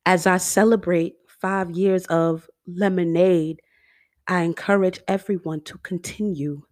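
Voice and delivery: lightly voiced singer impression, crisp and measured. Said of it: "let me get my singer voice".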